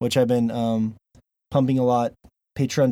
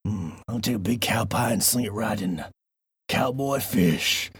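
lightly voiced cowboy; 2 semitones lower, 4 dB quieter than usual. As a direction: taunt your partner like a rowdy ranch hand. Cowboy voice game.

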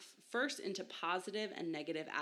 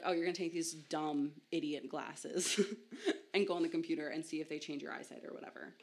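dismissive pitch. Retold or imitated. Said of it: "the tone with which they were told these glasses was either positive or negative".

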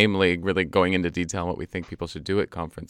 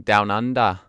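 put-on Australian accent; 5 dB louder than usual. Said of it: "That's my best Australian voice".

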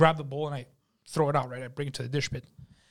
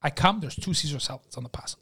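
normal talking voice

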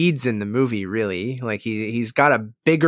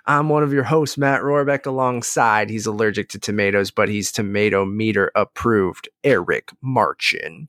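put-on host intro in a mild Texas accent. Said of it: "Matt, is that your Texas accent?".

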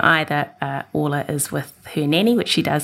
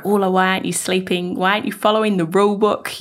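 retold exasperated mum, slightly higher pitch; mildly frustrated; 5 semitones higher, faster than usual. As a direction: plead with the child in mild mock frustration. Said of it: "And so I would get frustrated".

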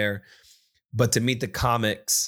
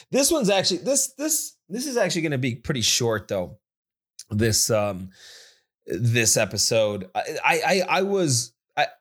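wired; 4 semitones higher than usual. Real, not acted. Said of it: "Sorry, I'm all fucking wired".

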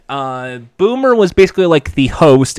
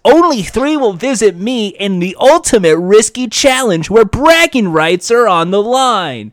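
surfer dude host; 6 semitones higher than usual. Retold or imitated. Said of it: "the surfer dude voice".

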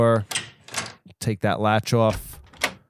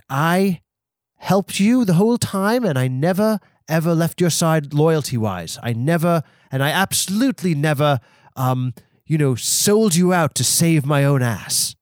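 eager defensive insisting; 4 semitones higher than usual. Acted. Spencer voiced defending loyalty.

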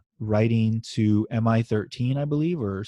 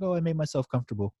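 1 posh British; 5 semitones higher, 6 dB quieter, faster than usual. Retold or imitated. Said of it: "she's so fucking British".

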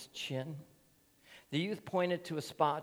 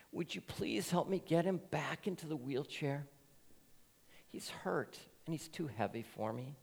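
sobbing plea; 3 semitones higher, 7 dB quieter than usual. Acted. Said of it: "So now, sobbing".

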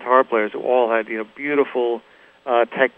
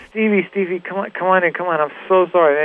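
lightly imitated flustered apology, higher voice; Ron; 6 semitones higher than usual. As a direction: usher him in with hurried mock apologies. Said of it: "And he says".

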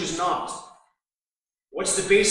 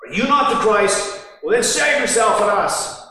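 abusive; 3 semitones higher, 3 dB louder than usual. Retold or imitated. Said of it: "in an abusive kind of way".

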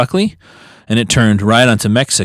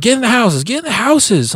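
higher mock cop command; police order; 12 semitones higher than usual. Officer ordering parents inside, higher mock command. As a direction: shout it at the neighbors. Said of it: "the police officer's like".

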